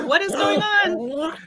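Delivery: high, slow mock dog voice; dog's voice. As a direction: voice the startled dog, drawn out and shouted. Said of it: "the dog's like".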